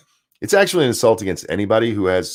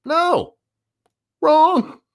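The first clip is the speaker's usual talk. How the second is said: high, loud, cutting "no, wrong"; sharp scolding no; 3 dB louder than usual. Real, not acted. Host scolds Cuomo's stairs threat, high and sharp. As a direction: slap him down with two curt words.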